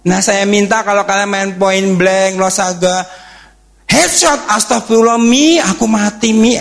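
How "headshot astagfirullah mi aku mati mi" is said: imitating a kid wailing to mum, higher; mock whine after losing a game; whining gamer kid. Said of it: "gitu ya. Jangan".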